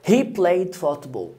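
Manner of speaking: very slow, each word spaced out; slow model sentence. Shown as a demonstration. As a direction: spell it out slowly for the learner. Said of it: "teacher models sentence slowly". (جملة بطيئة واضحة للتلميذ)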